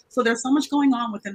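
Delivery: clearer, projected explanatory voice; speaking up. Real, not acted. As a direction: speak up a little so everyone can hear. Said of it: "Can you just speak up just a little bit".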